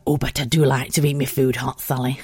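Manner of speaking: a hint of a prim mum; lightly voiced mum. Mum telling daughter Sally she likes food hot, lightly voiced. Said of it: "a character from Little Britain".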